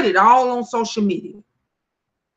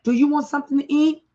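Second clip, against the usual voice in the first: a touch higher, fast coaxing offer; sweetly cajole the sister, quickly; lightly imitating siblings; 5 semitones higher, faster than usual. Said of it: "they would say".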